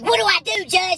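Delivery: high, panicky plea; freaking-out bailiff. Retold or imitated. Bailiff asking the judge for orders, mock panic. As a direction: imitate a flustered bailiff, voice shooting up. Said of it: "the bailiff is freaking out still".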